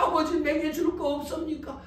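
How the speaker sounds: high-pitched acted appeal; pleading. Son asking his father for any blessing left, pleading.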